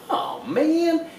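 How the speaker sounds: high laughing oh man; a rueful laughing sigh of complaint; mock despair with a laugh; laughing groan.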